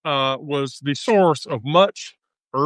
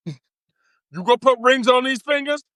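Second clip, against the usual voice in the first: higher, pushy demanding rant; mock hoochie mama rant; 7 semitones higher than usual. Hoochie mama scolding a broke brother, higher and brash. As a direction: demand he pay the bills, then dismiss him. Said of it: "the hoochie mama turns around and says".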